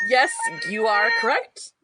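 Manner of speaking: slow, high squeaky reply; starstruck, overawed. Acted. Fan answering their idol, slow starstruck squeak. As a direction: answer carefully through a fangirl squeak.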